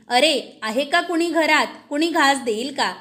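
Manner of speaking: a restrained holler into the house; calling out. Acted. Old beggar woman calls at the palace door for food, mild call. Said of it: "तिनं आरोळी दिली".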